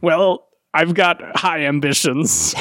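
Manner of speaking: mock pirate defending himself; slow, lightly voiced pirate. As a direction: drag it out in a wobbly pirate accent. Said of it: "I can't even fucking speak in this accent".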